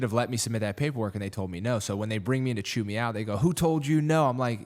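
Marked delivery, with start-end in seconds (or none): 3.4-4.3 mock angry demand. Commanders chewing him out, retold.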